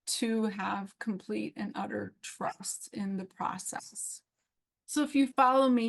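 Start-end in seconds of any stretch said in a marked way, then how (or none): 0.1-4.2 breathy whisper of trust. Real, not acted. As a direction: drop to a whisper as if confiding. Intimate vow of trust.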